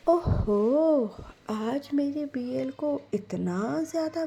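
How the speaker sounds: a mother playfully wounded; doting mother. Acted. Mother figure held. (माँ की ऊँची, छेड़ती शिकायत)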